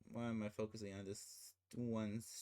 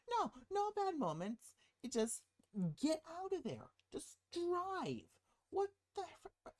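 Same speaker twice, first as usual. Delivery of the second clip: high-pitched mock exasperation; exasperated urging. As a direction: urge them to flee, voice leaping high. Exasperated plea to the film characters.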